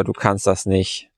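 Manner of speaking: leicht gespielte, tiefere, leisere und langsame Zweiflerstimme; zweifelnde innere Stimme. Retold or imitated. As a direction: sprich wie ein leiser innerer Bremser, ein Hauch entmutigend. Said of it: "da kommt diese innere Stimme, die sagt so". (innere Stimme des Co-Piloten, dezent tief, leise und langsam)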